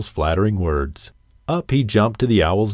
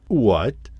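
mild snarl of a wolf, lightly voiced; a light wolfish snarl; feral snarling. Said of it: "snarled the wolf".

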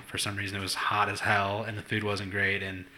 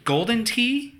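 exasperated rant; 6 semitones higher than usual. Retold or imitated. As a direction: lay out the only choices, annoyed. Retold exasperated rant at daughter.

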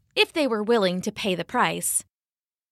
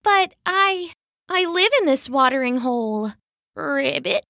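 higher, hurt little froggy voice; a hurt frog protesting, croaking; small, wounded protest ending in a croak; 5 semitones higher than usual. Acted. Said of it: "she croaked".

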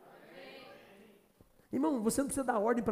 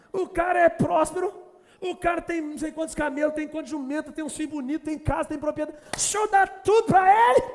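high, loud listing of riches; excited devil; 6 semitones higher, 6 dB louder than usual. Retold or imitated. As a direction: rattle off the blessings with growing glee. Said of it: "o diabo dando testemunho". (o diabo empolgado, agudo e alto)

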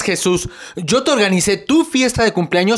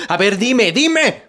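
demanding; slower than usual. Acted. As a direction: press her for an answer. Jealous boyfriend demands an answer. (exigiendo con celos, el último dime más agudo)

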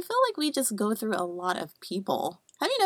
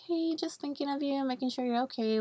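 sweet cute voice; 5 semitones higher, 6 dB quieter than usual. Retold or imitated. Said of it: "a cute little text".

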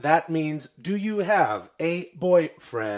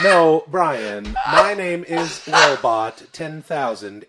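loud robot insistence; 4 dB louder, slower than usual. Acted.

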